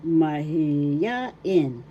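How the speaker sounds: mahiyain with a drawn-out "ya"; stress on third syllable. Shown as a demonstration. Teacher showing the accent of mahiyain, stress on third syllable. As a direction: lean slowly on the "ya" in "mahiyain". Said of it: "third syllable".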